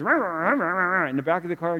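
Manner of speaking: imitated wordless rah-rah nagging; mock front-seat blather; imitated ranting. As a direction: rattle off mock ranting noises. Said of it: "so it's like the lady".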